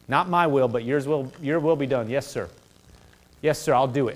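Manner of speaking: soft, low yielding prayer; quiet surrender. Retold or imitated. Preacher voicing a humbled believer, soft yielding prayer. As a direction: sink into a hushed yes, sir. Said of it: "we humble ourselves and say".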